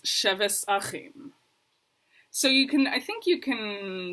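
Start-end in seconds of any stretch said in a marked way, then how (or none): 0.0-1.3 slow Ashkenazi "sheves achim" with an S for the tav; Ashkenazi pronunciation. Retold or imitated. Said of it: "Shlomi says".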